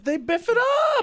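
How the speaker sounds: very high, slow squeak; mock squeaky voice. Teasing friend about drive-thru fails, squeaky mock voice. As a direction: squeak it like a cartoon.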